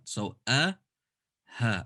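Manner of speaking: a caught, ha breathed out; a then ha. Shown as a demonstration. Teacher contrasting hamza and ha. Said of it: "Hamza is the one on the left".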